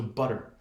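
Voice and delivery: flick the tongue back fast on "butter"; "butter" said the American way, tt as a tap; flapped T. Shown as a demonstration. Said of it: "You kind of hike your tongue back really quickly".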